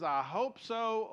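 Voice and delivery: slow, hesitant "I hope so"; a tentative, doubtful maybe; unsure hope. Shown as a demonstration. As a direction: drag it out like you're not sure. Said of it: "if our answer is".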